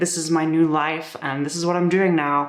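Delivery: normal talking voice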